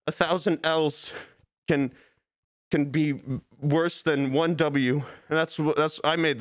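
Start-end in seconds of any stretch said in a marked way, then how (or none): 0.1-4.9 slow, halting pseudo-wise delivery; mock philosopher quote. Streamer inventing a great philosopher's saying, slow mock solemnity. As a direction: lightly intone a made-up wise saying. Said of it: "philosopher once said".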